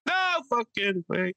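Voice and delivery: put-on very high, slow, trailing old Italian man. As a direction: play a crusty old Italian guy, dragging it out. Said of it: "You ever hear old Italian men?".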